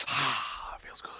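soft, contented mock sigh; sinking into a hot tub. Venom host relaxing in the lobster tank, softly content. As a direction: ease into it like warm water. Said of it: "get in there like a hot tub".

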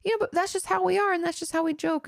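voicing defensive family. Imagined parents answering her boundary, high mock-defensive voice. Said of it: "then they might say".

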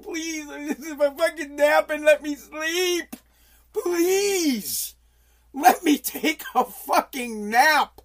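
whiny, slow, begging with a laugh; hammed-up plea for sleep; mock pleading. Comic begging for a nap.

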